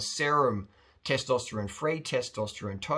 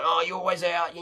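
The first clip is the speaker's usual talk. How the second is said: put-on a whiny, nagging girlfriend complaining; a nagging girlfriend's complaint, lightly voiced; mock nagging; 4 semitones higher than usual. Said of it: "She's just nagging you".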